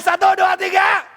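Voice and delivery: high, shouted count-in; aba-aba berteriak. Real, not acted. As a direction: shout the count to rouse them. Counts louder after "kurang keras. (hitungan diteriakkan keras)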